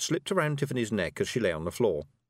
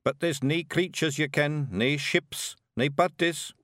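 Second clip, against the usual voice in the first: rowdy little Scots pixie voice; broad Scottish accent; 5 semitones higher, slower than usual. Acted. Rob observes.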